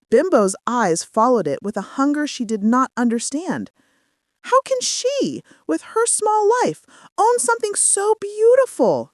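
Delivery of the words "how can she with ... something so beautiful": high, breathless, covetous character voice; envious inner thought. A narrator's reading. Bimbo envying Anita's necklace, high jealous voice. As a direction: let her envy rise up high in the voice. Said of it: "she thought".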